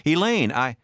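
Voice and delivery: high, urgent call cut short; startled protest. A narrator's reading. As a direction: start explaining and break off. Caught husband calls out to wife.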